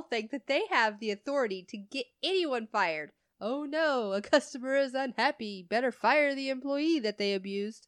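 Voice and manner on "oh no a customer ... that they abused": higher-pitched sarcastic fretting; sarcastic pretend dismay; mock alarm. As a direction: put on exaggerated concern, mockingly. Mocking customers' belief they can fire anyone.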